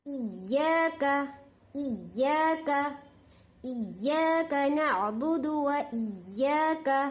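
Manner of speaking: इय्याका said slowly with the final का short; don't stretch the का of इय्याका; slow recitation with a short final ka. Shown as a demonstration. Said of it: "का कर को खींचना नहीं".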